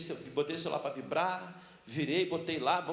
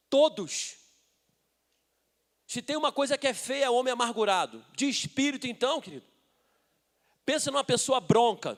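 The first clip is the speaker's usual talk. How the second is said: raised, insistent sermon voice; emphatic preaching; 6 semitones higher, 6 dB louder than usual. Real, not acted. Preacher describing embittered men to the congregation, emphatic preaching. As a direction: press the point on the congregation.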